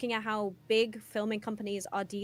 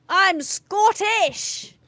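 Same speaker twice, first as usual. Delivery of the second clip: slow, high, loud protest; hammed-up outrage; mock indignant shout; 8 semitones higher, 9 dB louder, much slower than usual. Joking protest about accents.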